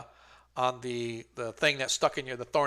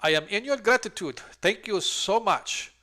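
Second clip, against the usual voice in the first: a touch higher, lightly voiced old lady thanking them; a lightly voiced grateful old lady; 4 semitones higher, 11 dB louder than usual. Old lady thanks the party for saving her, a lightly voiced old woman. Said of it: "she sort of turns and is like".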